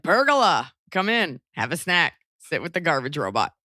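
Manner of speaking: mock Yiddish host welcoming a guest; hammed-up Yiddish lilt, falling away; Yiddish accent. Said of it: "it also sounds Yiddish".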